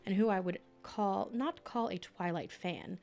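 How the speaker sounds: steady audiobook narration; reading aloud. Acted. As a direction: read it like your own afterword. Reads her book aloud.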